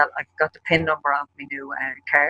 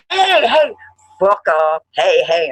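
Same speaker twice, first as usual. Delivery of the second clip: yelled retort; 2 semitones higher, 7 dB louder, much slower than usual. Retold or imitated. Yelling at hotel staff while smashing the plants, in a loud shout. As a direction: bellow it across the lobby.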